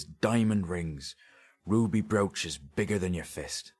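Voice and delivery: dialect thief, animated and wistful; eager working-class storyteller, mildly lifted pitch; grave robber marvelling. Acted. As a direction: relish every item of the haul. Sketch relishes describing the loot.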